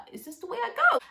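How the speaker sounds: high laughing plea to God; laughing mock prayer. Real, not acted. Joking prayer in the lift, laughing high. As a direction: laugh as you ask if this is the end.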